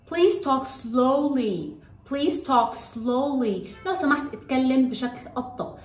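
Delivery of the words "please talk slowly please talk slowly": very slow, drawn-out instruction with falling ends; slow model phrase. Shown as a demonstration. Teacher models a classroom instruction for children, very slowly. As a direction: space out each word for learners.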